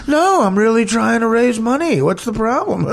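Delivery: arrogant rich guy. Retold or imitated. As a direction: play Sam as a smug, entitled rich friend. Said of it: "he has an arrogant rich guy way of talking".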